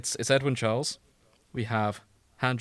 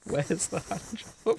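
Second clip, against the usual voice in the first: slow, higher crisp Edwin; 8 semitones higher, 3 dB quieter, slower than usual. Acted. Friends reading fanfic, Edwin's crisp, slow question. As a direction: enunciate each word slowly and crisply. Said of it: "Edwin's crisp voice in his mind".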